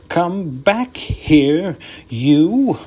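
slow, loud angry call. Acted. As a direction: yell after the rabbit. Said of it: "cried Professor Hinkle".

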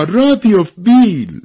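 high, loud urging call; high-pitched acted holler. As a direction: shout it to hurry someone along. Urging someone on in story.

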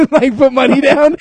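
words squeezed out through high laughter; slow, giggling through the line; cracking up mid-sentence; laughing. Real, not acted. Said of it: "laughing while saying it".

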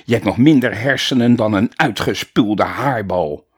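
loud contemptuous roar; bellowing teacher. Acted. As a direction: bellow the insult down at him. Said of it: "brulde meester Bulder". (brullend en minachtend)

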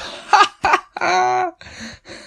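high mock giggle after the song; a silly high laugh; imitated laugh. Imitating the laughing singer, a high mock giggle.

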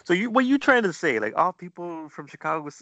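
loud, high-pitched teasing challenge; mock indignant. Real, not acted. Mock accusation, teasing the host.

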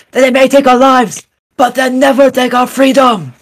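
rousing Scottish battle speech, slow then building to a shout; rally the troops in a hammed-up Scottish accent; Scottish Braveheart speech. Podcast host quoting William Wallace to inspire listeners before finals, in a rising Scottish accent. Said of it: "my Scottish Zach is over now".

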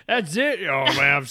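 hammed-up shock at a lightweight; playful incredulous jab; mock disbelief.

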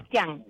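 Cristian stressed on the final A, "Cris-TIÁN"; stress on last syllable. Shown as a demonstration. Client clarifies the name to therapist, stress on final A. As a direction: put the accent on the A of Cristian. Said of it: "es con acento en la A".

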